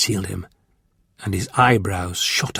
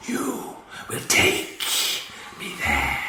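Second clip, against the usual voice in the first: slow hissed alien command; 8 semitones lower, 7 dB quieter, much slower than usual. A narrator's reading. Ice Warrior ordering Victoria, slow whispered command. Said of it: "he commanded".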